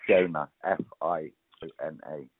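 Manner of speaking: speaking without teeth; gummy, toothless speech. Real, not acted. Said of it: "Sorry, I've got no teeth".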